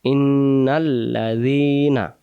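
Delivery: slow Quran recitation. Shown as a demonstration. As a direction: recite broken into words, slow. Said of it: "আপনারা ভেঙে ভেঙে". (ভেঙে ভেঙে ধীরে তেলাওয়াত)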